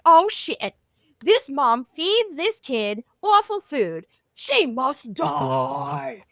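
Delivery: slow, hammed-up monster sentencing the mom; theatrical goblin verdict. Goblins deciding the mom must die, a slow, hammed-up villain verdict. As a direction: drag out the doom like a cartoon villain.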